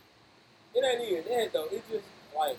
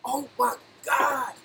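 surprised; 8 semitones higher, 5 dB louder, much slower than usual. Real, not acted. Reacting to pastor's income.

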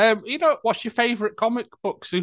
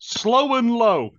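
slow quiz read; 6 semitones higher, much slower than usual. Shown as a demonstration. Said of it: "reading quiz name slowly".

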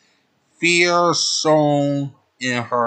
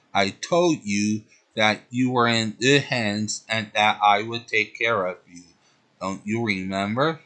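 a lightly softened, gentle reassurance; soft, comforting. Acted. Tuxedo Common reassures frightened Sailor Moon, mildly soft and comforting. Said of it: "He spoke to her in a soft, comforting voice".

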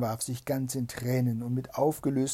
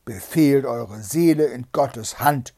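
loud, slow, heavy pronouncement; merciless command; 10 dB louder than usual. A narrator's reading. Bluebeard readies to strike his wife, merciless command. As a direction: deliver the last order loudly and slowly.

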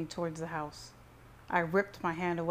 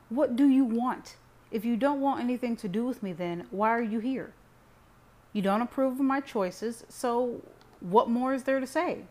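loud, raised, angry challenge; heated; 6 semitones higher, 6 dB louder than usual. A narrator's reading. Son demands why his family came, heated. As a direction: fire questions at them, worked up. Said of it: "I was heated".

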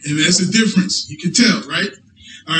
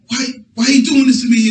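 fast, higher mock plea; pleading donkey; 5 semitones higher, faster than usual. Preacher voicing the donkey begging Balaam, fast and higher. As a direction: rush out the donkey's hurt question.

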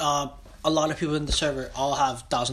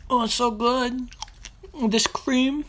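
savoring voice; 9 semitones higher, slower than usual. Pretend. Savoring ice cream.

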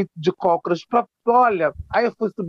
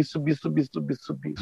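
each subi softer until it nearly vanishes; fading away; 2 semitones lower, 9 dB quieter than usual. Retold or imitated. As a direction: let the voice die out on the climb. Subida cansativa, voz sumindo. (voz sumindo aos poucos)

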